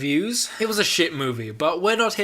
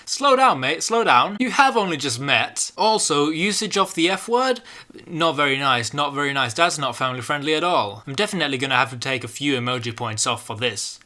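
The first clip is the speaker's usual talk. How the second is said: mock scolding conscience; 5 dB louder than usual.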